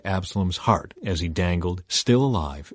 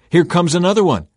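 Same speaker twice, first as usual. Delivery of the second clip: high, louder call; shouting down; 8 semitones higher, 5 dB louder than usual. A narrator's reading. Watchman to the king below, shouting down. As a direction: call it down from above. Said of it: "He shouted down".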